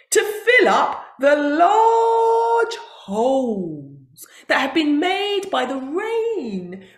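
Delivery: tearful buffalo. Acted. Buffalo explaining, cry heard.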